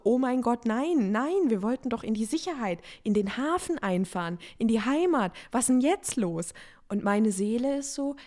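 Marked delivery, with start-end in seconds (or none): 0.0-6.5 mock panicked outcry. Her mind cries out in alarm at the new feeling, mock panic. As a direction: play the mind panicking that the plan failed. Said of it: "mein Verstand schreit so".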